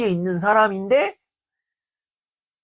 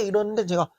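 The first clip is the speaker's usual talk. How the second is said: ordinary delivery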